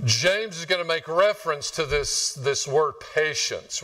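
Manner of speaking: usual speaking voice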